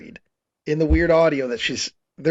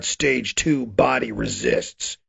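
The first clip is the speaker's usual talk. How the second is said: low, slow title reading; mock-dramatic announcer, sinking in pitch; title card announcement; 5 semitones lower, much slower than usual. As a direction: intone it like a chapter title, dropping low.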